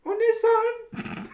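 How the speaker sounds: very high, slow, loud squeal; exaggerated high kawaii voice. Shown as a demonstration. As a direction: draw it out in a cutesy high-pitched voice. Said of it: "the really high pitched one too".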